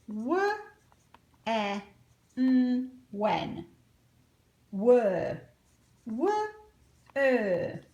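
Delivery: loud, clear drill of each w-word, one at a time; sound drill. Shown as a demonstration. Teacher drilling question words with the class. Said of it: "Now you do it".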